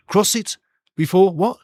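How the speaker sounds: a lightly voiced coach checking the answer. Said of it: "Keres giving the directions now".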